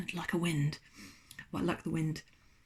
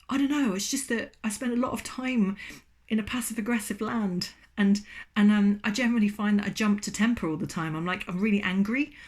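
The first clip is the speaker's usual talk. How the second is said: sheepish bear; 2 semitones higher, 4 dB louder than usual. Acted. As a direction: confess like a grumpy bear. Bear character explains temper.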